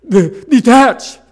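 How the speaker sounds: slow, loud, high-pitched command to detach; hammed-up teacher's decree; mock stern teacher. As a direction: imitate preachy teachers drawing out the word. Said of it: "They all say".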